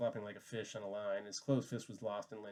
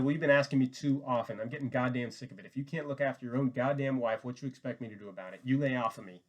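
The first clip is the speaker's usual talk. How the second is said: angry; 4 dB louder than usual. Acted. Slim angrily rebuffs Curly.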